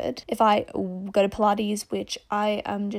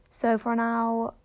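"So for now" drawn out slowly in an odd, unplaced accent; accidental odd accent on "So for now", dragged out; weird accent slip; much slower than usual. Real, not acted. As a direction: let the accent slip strangely on "So for now", stretched slow. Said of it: "my accent just sounded so weird".

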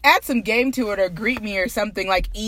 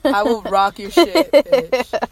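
mock tough-girl threat, louder; 7 dB louder, slower than usual. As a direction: bark it like a fight threat. Threatening to beat someone up.

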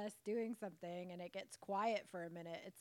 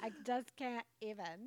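put-on Valley Girl voice; 2 semitones higher than usual. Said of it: "Valley Girl voices".

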